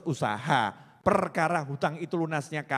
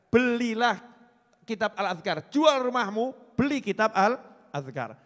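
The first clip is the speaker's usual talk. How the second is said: loud, high urging call; urging shout; 5 semitones higher, 5 dB louder than usual. Acted. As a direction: press the crowd to buy it, loud. Preacher urging to buy the book. (seruan keras penuh semangat)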